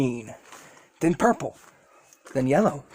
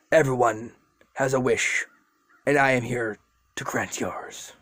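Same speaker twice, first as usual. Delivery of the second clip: ancient serpent; 2 semitones lower than usual. Acted. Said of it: "He's like".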